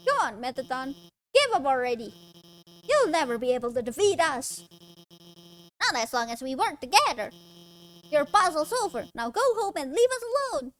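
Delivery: defiant heroine voice. Acted. Scientist confronts the robot host.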